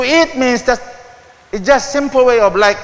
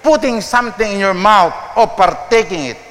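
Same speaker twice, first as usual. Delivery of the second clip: ordinary talk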